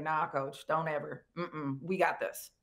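lightly voiced player reassuring the coach; calm reassurance. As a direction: settle her down gently. Players reassuring her, low-key.

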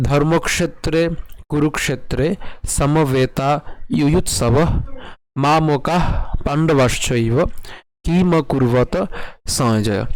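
careful Sanskrit reading in short phrases; verse recitation. Shown as a demonstration. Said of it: "আবার প্রথম থেকে একটু বলছি".

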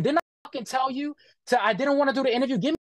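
imitating the boss going off on him; a hint of a furious boss; retold yelling. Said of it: "He starts yelling at me".

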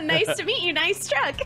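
giggling through a greeting; laughing. Real, not acted. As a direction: say it while still laughing. Laughing at joke name.

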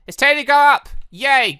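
loud, high gleeful cheer; excited cheer. Real, not acted. Player cheering as he sets off, loud and gleeful. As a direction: burst out happily. Leaving the village.

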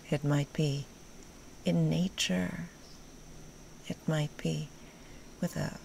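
gentle meditation guide, long pauses between phrases; guided meditation. Acted. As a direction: guide them unhurriedly into comfort, phrase by phrase.

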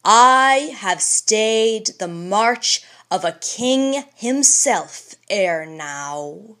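slow, steady, stern reply; stern composure. Acted. Old man answering the governor with stern composure. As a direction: answer with calm authority. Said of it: "with stern composure".

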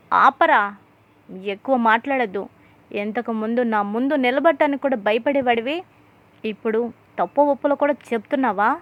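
a stern father shouting down his son, retold; angry shout. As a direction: open with a loud bark then keep scolding. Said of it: "అని గట్టిగా అరవడంతో".

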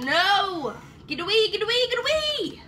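high, urgent shooing; shooing away. Real, not acted. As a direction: shoo the pet off. Shooing away pet, higher voice.

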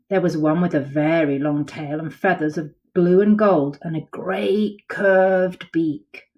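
lively picture-book read-aloud; storybook voice for kids; reading to children. A narrator's reading. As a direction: tell it like a bedtime story to little ones.

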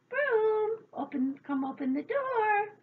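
loud, high summons; calling out. A narrator's reading. Locked-out fairies ordering the broom, loud high call. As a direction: call commandingly through a shut door.

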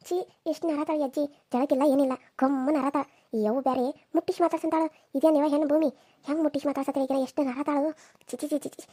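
hushed, repelled tutting; disgusted aside. Acted. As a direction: complain under your breath about a stink. Disgusted aside about grandmother's smell.

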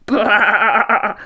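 mischievous sheep laughing baa; laughing bleat. A narrator's reading. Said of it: "laughed the mischievous sheep".

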